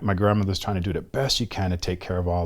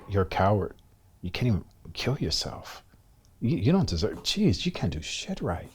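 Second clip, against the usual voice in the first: retold self-scolding, climbing higher as it builds; self-berating inner voice; 4 semitones higher than usual. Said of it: "it's that constant beating myself up".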